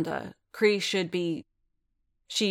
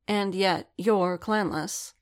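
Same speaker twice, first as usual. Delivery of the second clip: cool observation; 2 semitones higher, slower than usual. Acted. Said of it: "she observed".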